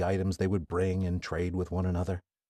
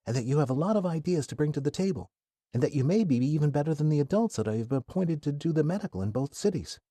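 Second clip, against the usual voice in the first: put-on lightly raised, admiring young woman; friendly young woman; 6 semitones higher than usual. Athena complimenting Kai's medical skill, lightly voiced. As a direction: praise him warmly.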